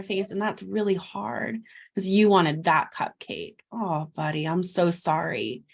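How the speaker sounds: gentle soothing parent voice; a tender parent talking to a child; soothing inner child. Shown as a demonstration. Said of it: "They need us to come to them and say".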